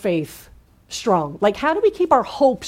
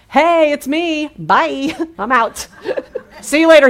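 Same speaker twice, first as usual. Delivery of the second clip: casual goodbye; 5 semitones higher, 3 dB louder than usual. Retold or imitated. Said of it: "He's like".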